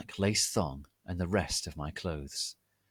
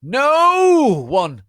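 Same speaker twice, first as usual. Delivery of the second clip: high, loud panicked cry; shouted no; 15 dB louder than usual. Acted. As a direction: scream it as chains grab you. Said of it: "Lupin shouted".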